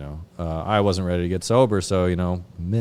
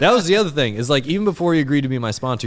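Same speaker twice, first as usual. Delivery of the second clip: laughing; 9 semitones higher, 6 dB louder, faster than usual. Real, not acted. Still laughing, rushing on.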